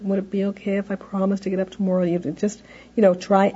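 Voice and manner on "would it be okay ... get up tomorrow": lightly voiced child asking politely. Shown as a demonstration. Child politely asking mom to stay up. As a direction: ask Mom sweetly, a bit higher. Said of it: "maybe even asking here".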